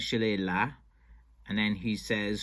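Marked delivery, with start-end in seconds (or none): 0.0-0.7 Shillelagh ending in "lah"; town-name pronunciation. Shown as a demonstration. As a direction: say Shillelagh as shi-LAY-lah. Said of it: "pronouncing the name of the town as".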